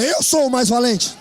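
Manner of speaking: slow, firm and bold; slow, bold declaration of strength; brave face. Shown as a demonstration. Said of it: "Faz cara de valente agora".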